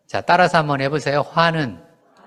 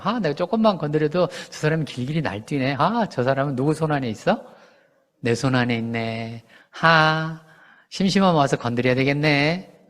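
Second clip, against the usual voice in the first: gloating; 3 semitones lower, 4 dB quieter than usual. Acted. Gloating enemy's inner voice.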